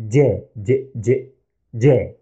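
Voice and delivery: J repeated with a slight d before it, dj; Arabic jeem. Shown as a demonstration. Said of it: "We add a slight D before the sound".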